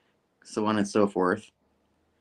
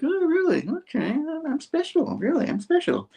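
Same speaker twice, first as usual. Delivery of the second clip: mock Spidey. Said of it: "And Spidey's like".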